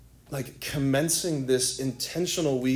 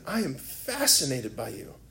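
softer, heartfelt retold confession; quietly sincere, lightly acted; tender declaration; 2 semitones lower, 5 dB quieter than usual. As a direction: repeat it softly, as a groom to his bride. Groom repeats tender declaration.

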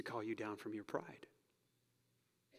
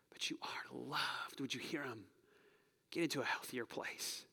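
tender whisper; 5 dB quieter than usual. Real, not acted. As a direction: breathe it like a reassurance. Pastor's tender appeal.

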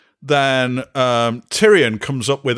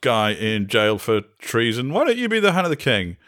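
lightly voiced Bran. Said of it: "Bran goes".

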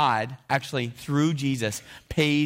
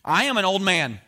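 put-on high, loud, slow old-man plea; reading Zechariah's excuse; 4 semitones higher, 5 dB louder, slower than usual. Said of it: "Watch what he says here".

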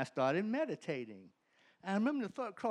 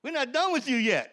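raised, louder and higher, each word driven home; emphatic repeat; 8 semitones higher, 6 dB louder than usual. Acted. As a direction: proclaim it like a verdict from above. Voice's answer, repeated for effect.

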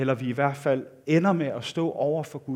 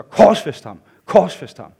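loud, punched imitation of a mob; retold crowd shout; 10 dB louder, much slower than usual. Preacher imitating the crowd turning on Jesus, loud repeated shout. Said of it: "råbte de selv samme mennesker".

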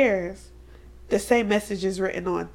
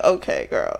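breathy aside; unvoiced sarcastic aside; 3 semitones lower than usual. Real, not acted. Friend reacting to the show, whispered sarcasm.

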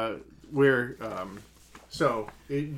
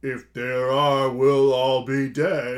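slow, louder Fezzik rhyming; drawn-out simple giant rhyme; 6 dB louder, slower than usual. Acted. Co-host voicing Fezzik answering Vizzini, slow and louder.

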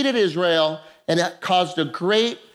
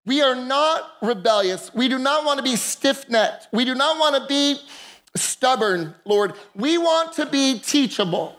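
prayer. Acted. Leads congregation in prayer.

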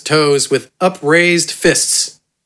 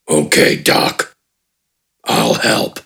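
very low, slow, rough orc rumble; grudging brute; 5 semitones lower, slower than usual. A narrator's reading. Gafgarn grudgingly agreeing to help, low and slow. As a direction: agree reluctantly, deep.

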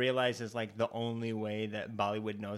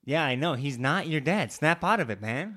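loud, pushy scolding; 3 semitones higher, 7 dB louder than usual. Pretend. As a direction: shout him out of it.

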